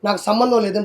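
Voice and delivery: sarcastic imitation of a politician playing innocent; mock Roja denial. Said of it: "Roja అల్లా".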